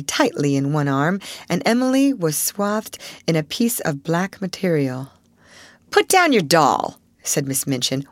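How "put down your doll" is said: stern headmistress. Acted. Headmistress orders the child.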